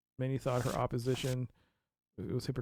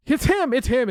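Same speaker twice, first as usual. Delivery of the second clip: loud, high, certain it's him; excited; 10 semitones higher, 10 dB louder than usual. Real, not acted. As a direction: blurt it out triumphantly. Excited accusation of suspect.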